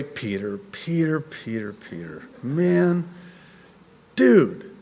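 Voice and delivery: soft, low, weary repeated name; imagined disappointed Lord. Pretend. The Lord imagined responding to sinking Peter, mock disappointed. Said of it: "The Lord responding this way".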